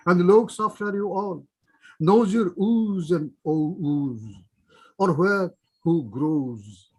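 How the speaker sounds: declaimed verse, line by line with pauses; poem recitation. Acted. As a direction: recite it emphatically, drawing out line endings. Recites own poem to audience.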